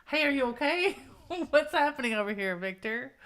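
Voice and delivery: lightly acted worried question; mock concerned Justine. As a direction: play puzzled concern, half laughing. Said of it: "She's come over here going".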